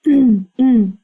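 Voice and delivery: prim hums, then a polite refusal; demure, almost laughing. Acted. She hides that she's almost laughing at him, demure. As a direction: hold back amusement behind demure politeness. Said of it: "one of those demure things".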